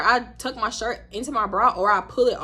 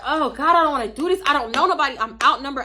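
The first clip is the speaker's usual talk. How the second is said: mild mock panic; 4 semitones higher, 5 dB louder than usual. Nervous inner voice.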